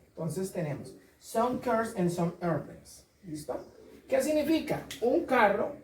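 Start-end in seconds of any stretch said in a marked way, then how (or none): 1.2-3.1 "some cars and some airplanes" very slow, final S stressed; slow teaching model. Shown as a demonstration. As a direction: spell it out slowly for learners. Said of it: "recuerden siempre la S".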